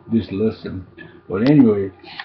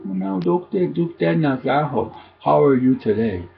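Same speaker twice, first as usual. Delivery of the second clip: a lightly voiced sister, higher pitched, teasing; sister's greeting; 6 semitones higher than usual. Older sister greeting her sibling, lightly voiced and high. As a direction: play the sister greeting you with a lift. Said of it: "she would call you Tiblo".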